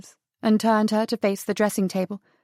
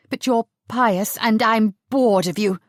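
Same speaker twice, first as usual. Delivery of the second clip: hissing contempt. Acted. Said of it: "she hissed".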